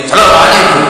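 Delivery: salam called out high and brisk; high, loud greeting. Shown as a demonstration. Arab pupil meeting his teacher, high-pitched loud greeting. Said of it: "salamnya ya tetep pakai nada tinggi, keras".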